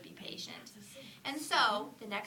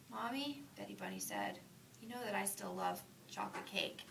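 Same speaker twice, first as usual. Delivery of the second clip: put-on soft child voice; 7 dB quieter than usual. Sleepy child at bedtime.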